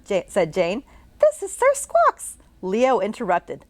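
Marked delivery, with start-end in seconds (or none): 1.2-2.4 much higher, slow, showy introduction; grand announcing girl. Acted. Jane grandly introducing her imaginary giant hamster. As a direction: present him with a flourish.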